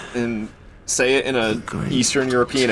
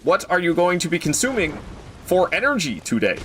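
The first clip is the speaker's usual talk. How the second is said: mock-human greeting; 3 semitones higher than usual. Streamer asking fellow humans about consuming energy, mock-stilted. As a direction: politely pose as one of the humans.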